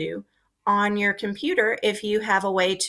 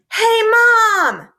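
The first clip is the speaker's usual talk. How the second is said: loud, higher yell calling mom; 13 semitones higher, 8 dB louder than usual. Shown as a demonstration. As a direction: shout across the house for mom. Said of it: "I yelled".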